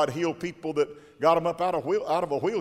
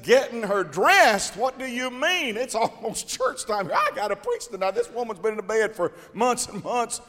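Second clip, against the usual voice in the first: incredulous retelling; 6 semitones higher than usual. Retold or imitated. Preacher retells his astonishment.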